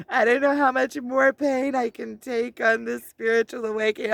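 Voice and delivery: half-laughing through a retold lament; laughing while retelling. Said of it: "me crying about".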